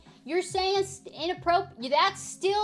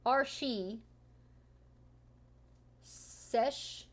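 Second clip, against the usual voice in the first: careful slow tongue twister; slower than usual. Shown as a demonstration. Attempting the French tongue twister, slow and careful. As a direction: sound out each French word slowly. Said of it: "It's like a tongue twister".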